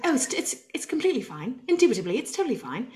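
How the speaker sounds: reassurance in a put-on British-style accent. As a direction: play the out-of-towner in a fake accent. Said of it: "let's just talk like this".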